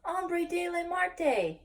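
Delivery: high, slow, drawn-out warning; mock shiver. A narrator's reading. Poquito Tito warns of the Martian, mock shiver. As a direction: stretch it out with storybook dread. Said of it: "with a shiverito".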